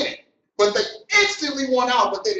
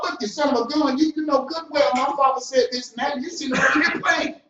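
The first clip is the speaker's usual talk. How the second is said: higher, louder rebuke, voicing Jesus scolding the Pharisees; 9 semitones higher, 3 dB louder than usual. Jesus rebuking the Pharisees who are stalling: raised, scolding voice. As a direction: tell them off hard and fast, like chasing people out. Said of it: "He broke them off".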